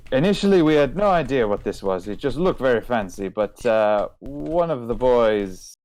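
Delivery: lightly French-tinged trader voice; lightly voiced merchant lady. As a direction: play the shopkeeper, pleased to see an old customer. Merchant explains the sword.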